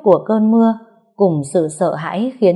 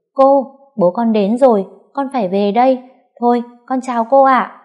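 put-on child voice; 5 semitones higher, 4 dB louder than usual. Child Bom calls out.

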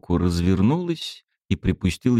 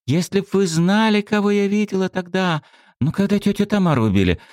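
put-on high, fast girl's confession; 11 semitones higher than usual. A narrator's reading. Svetka's secret, fast and high.

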